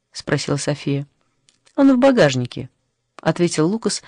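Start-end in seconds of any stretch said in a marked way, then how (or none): 1.8-2.7 preoccupied, higher on the first word; a touch of worry, pitched up; озабоченно. A narrator's reading. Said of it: "озабоченно". (слегка озабоченно)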